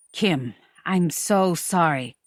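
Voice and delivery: low, slow apology; sincere apology. Acted. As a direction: apologise gently, slowing right down. Man apologises after the quarrel.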